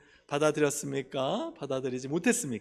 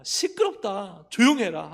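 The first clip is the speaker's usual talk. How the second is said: raised, higher-pitched telling-off; acted rebuke, pushed louder at the end; mock scolding; 5 semitones higher, 7 dB louder than usual. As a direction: imitate annoyed bystanders scolding someone. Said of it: "꾸짖었어요".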